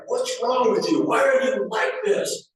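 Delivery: high, loud frustrated yelling; mock exasperated mom. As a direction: play the fed-up mom. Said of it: "she got mad and was like".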